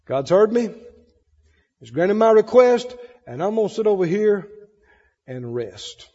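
calm, settling into rest; relieved. Acted. Believer who has handed over the problem, calm relief. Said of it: "a big sigh of relief and go".

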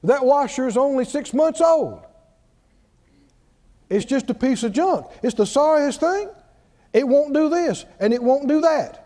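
mildly annoyed griping, imitated; mock mad complaint. Preacher imitating people mad at a washer, mild mock complaint. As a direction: imitate someone fed up with an appliance. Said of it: "and then people get mad".

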